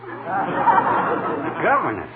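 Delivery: incredulous. Acted. Mishearing governess as governor.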